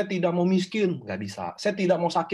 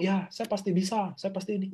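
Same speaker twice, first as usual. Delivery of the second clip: half-hearted affirmation; 3 semitones higher, 3 dB quieter than usual. Retold or imitated. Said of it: "Ada orang ngomong".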